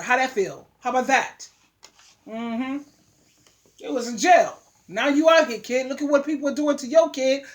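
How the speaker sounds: ordinary talk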